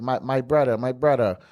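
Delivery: lightly attempted Jamaican accent; bad Jamaican accent. Jamaican dude approaching a tourist, tentative Jamaican accent. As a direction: imitate a Jamaican hawker, accent only half there. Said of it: "a bad accent".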